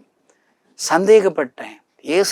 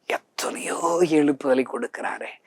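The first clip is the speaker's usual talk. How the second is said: awed whisper; 6 dB quieter than usual. Acted. Awed aside in sermon testimony.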